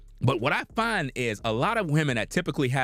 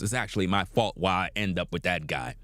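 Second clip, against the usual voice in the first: imagined regretful woman; 10 semitones lower than usual. Retold or imitated. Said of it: "be like".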